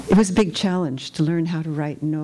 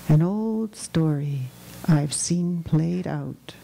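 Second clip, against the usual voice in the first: measured, even reading with long pauses; poetry reading; 3 dB quieter than usual. Acted. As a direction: read it as solemn verse, letting phrases trail softer. Poet reads from her Noh play.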